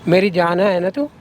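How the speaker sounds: low, cajoling sweet talk; placating lover's tone; coaxing. Acted. Man switches to coaxing her.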